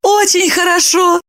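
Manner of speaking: high, glad exclamation; brightly pleased, high; high happy exclamation. A narrator's reading. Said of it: "обрадовалась Липочка".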